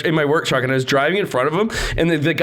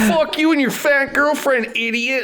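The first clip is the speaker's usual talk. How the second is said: laughing through quote; 12 semitones higher than usual. Retold or imitated. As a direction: retell it while cracking up. Retelling the kid's comeback laughing.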